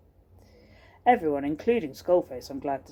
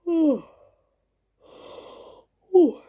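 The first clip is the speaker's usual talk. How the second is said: high, open yawning "ooh"; acted yawn; 11 semitones higher, 5 dB louder than usual. Bellboy caught on duty, acted yawn. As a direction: let out a mock yawn.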